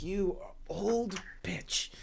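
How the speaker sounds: snobbish, contemptuous, scornful tone. Voicing the mayor who turns his nose up at an old woman: scornful insult. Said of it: "turns his nose up at her".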